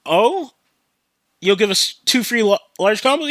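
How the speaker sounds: lightly acted intrigued surprise; mock pleased surprise. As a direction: imitate customers perking up at an offer. Customers react to the offer.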